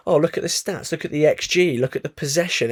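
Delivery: sneering parody of excuses; mocking quote. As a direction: rattle off the excuses scornfully. Mocking the club's stats excuses.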